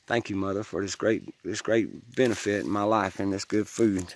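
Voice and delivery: real, low-key gratitude; heartfelt thanks. Real, not acted. Giving thanks to Mother Earth.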